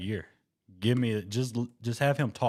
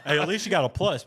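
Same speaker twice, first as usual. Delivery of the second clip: laughing; 8 semitones higher, 6 dB louder than usual. Real, not acted.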